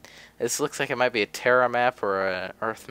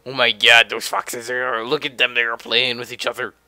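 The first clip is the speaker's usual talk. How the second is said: cute voice; 6 dB louder than usual. Real, not acted. Streamer fawning over cartoon foxes on the map, cutesy voice. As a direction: coo over the little foxes. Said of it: "And this is my cute voice".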